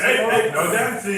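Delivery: lightly acted rabbi telling people off; scolding rabbi. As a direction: call a halt like a stern rabbi. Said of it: "The rabbi said".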